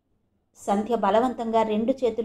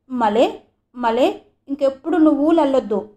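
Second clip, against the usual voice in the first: put-on lisping child; 3 semitones higher, 6 dB louder than usual. A narrator's reading. Boy clings to father's neck, lisping child plea. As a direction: plead like a small boy.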